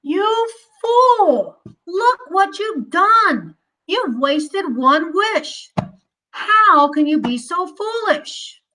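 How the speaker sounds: a wife's understated scold; wife scolds husband over a wasted wish, mildly. Acted. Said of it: "The woodcutter's wife scolded her husband".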